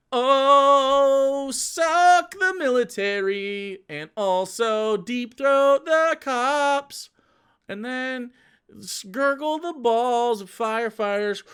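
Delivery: high, slow, hammed-up singsong parody; mock patriotic voice, high and slow; mock anthem voice. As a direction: drag it out high like a mocking chant. Mocking what the anthem supposedly says.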